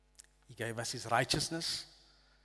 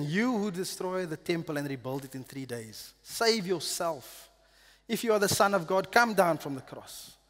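louder, taunting jeer at the crucified man; jeering crowd's mockery, louder; mocking jeer; 3 semitones higher, 4 dB louder than usual. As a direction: throw the taunt up at the cross. Passersby mock Jesus on cross.

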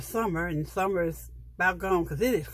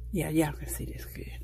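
whisper; 4 semitones lower, 4 dB quieter than usual. Real, not acted. Hushed aside while showing book.

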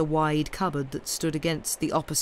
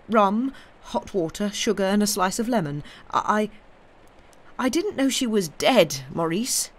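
lightly voiced higher, faltering man; uneasy Jarvie; 4 semitones higher than usual. Mister Jarvie excusing himself to Maurice, mildly faltering. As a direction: stumble into a hesitant admission. Jarvie answers nervously in story.

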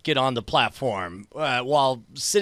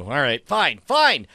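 exasperated giving in; 2 semitones lower, 5 dB louder than usual. Acted. Player gives in to companion, exasperated. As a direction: give in with a rising huff. Gives in after losing the argument.

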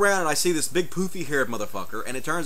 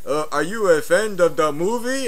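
slow mock English accent, pitched higher; 4 semitones higher, 4 dB louder, slower than usual. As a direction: imitate an Englishman, slow and a bit high. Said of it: "he's got this English accent".

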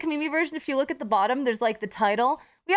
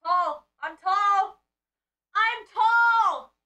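rising higher with each "tall"; playful building brag; mock boast; 6 semitones higher, much slower than usual. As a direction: proudly insist on being tall.

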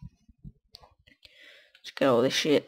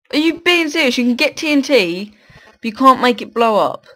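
incredulous; 5 semitones higher, 4 dB louder than usual. Real, not acted. Outraged at game mechanic.

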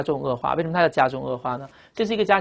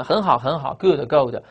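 encouraging praise; slower than usual. Acted. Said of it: "鼓励孩子们的时候".

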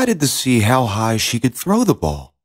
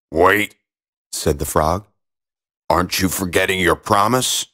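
frog voice; 5 semitones lower than usual. Acted. Frog reminds princess.

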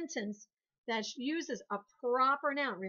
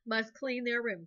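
firm command; 3 dB louder, slower than usual. Shown as a demonstration. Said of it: "A command was".

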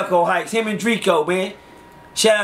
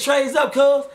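mock gang shout; 7 semitones higher, slower than usual. Throwing up gang sign.

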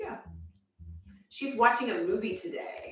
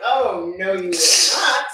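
indignant retort; 2 semitones lower, 12 dB louder, slower than usual. Retold or imitated. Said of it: "And I'm like".

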